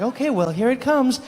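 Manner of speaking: high, chirpy warning; voice of the body. Retold or imitated. Body announcing the coming burp, high put-on voice. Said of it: "He's like".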